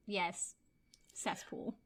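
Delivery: soft unvoiced "cesspool"; agreeing with the cesspool joke in a hush; whispered agreement. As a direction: breathe it like a guilty secret. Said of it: "I was just like".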